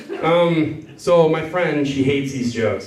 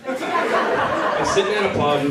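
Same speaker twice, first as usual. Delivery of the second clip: laughing restart; 7 semitones higher, slower than usual. Real, not acted. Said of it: "God damn it".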